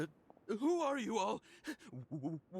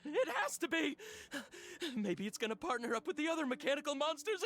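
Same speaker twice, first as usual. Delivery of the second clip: paranoid panic; 3 semitones higher than usual. Acted. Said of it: "His inarticulate speech and bodily tremors".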